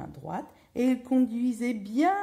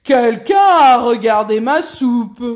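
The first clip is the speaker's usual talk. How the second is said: big bear's shout; 4 semitones higher, 16 dB louder than usual. A narrator's reading. Big bear inspects his bowl, booming shout.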